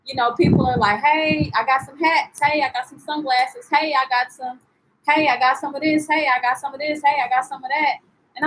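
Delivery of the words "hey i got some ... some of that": lightly voiced insistent hawker pitch; quick run of mock sales calls, slightly raised; street vendor. Vendors pitching wares to a passing tourist, mimicked hawker.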